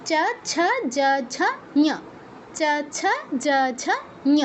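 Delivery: চ, ছ, জ, ঝ, ঞ with short 'uh' vowels; Sanskrit palatal row. Shown as a demonstration. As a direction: recite the row ending in ঞ as 'nyuh'. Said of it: "এরকম".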